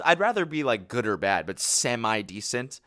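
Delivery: incredulous, stretching semi-decent into a question; mock-offended. Real, not acted. Objecting to a commenter's faint praise, mock-offended. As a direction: protest the faint praise as an insult.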